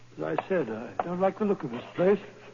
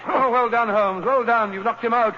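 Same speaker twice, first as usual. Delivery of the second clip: excited praise; 3 semitones higher, 4 dB louder than usual. Acted. After the fight.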